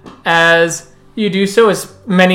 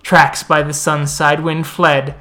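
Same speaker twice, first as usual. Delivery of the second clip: epic fantasy narrator. Acted. NPC tells a legend at the moot.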